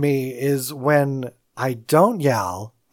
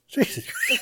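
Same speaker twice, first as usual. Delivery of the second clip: panicked high squeal; 12 semitones higher, 6 dB quieter than usual. Retold or imitated. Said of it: "one running saying".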